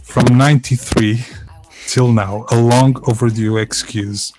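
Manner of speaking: slowly savoured, ironic understatement; drawn out, dry and gentle; slow, deliberate quote. Retold or imitated. Repeating Alan's line to the listener, slow and dry.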